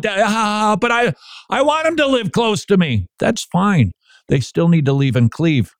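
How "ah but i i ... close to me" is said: mock clingy parent. Parent objecting to letting go.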